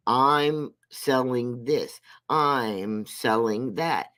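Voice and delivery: drawn-out mock hawking, slow; slow mocking sales pitch. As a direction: spell out each item slowly, mocking her sales pitch. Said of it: "while she's saying".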